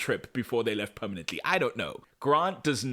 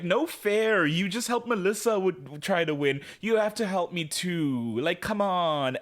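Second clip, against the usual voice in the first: wheedling protest; 5 semitones higher than usual. Retold or imitated. Faye wheedles Adam for help.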